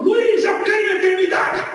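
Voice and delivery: high, loud tearful cry; crying shout. Retold or imitated. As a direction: shout it out with tears of faith. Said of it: "chorando, ele gritou".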